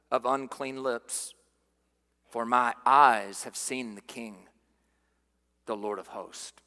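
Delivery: quoting Isaiah's lament, softly; awed lament. Retold or imitated. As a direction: sink into dread-struck quiet as you go. Voicing Isaiah undone before God.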